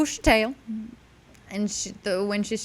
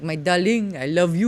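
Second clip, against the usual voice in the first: Pepe Le Pew. Retold or imitated. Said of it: "I'm Pepe Le Pew".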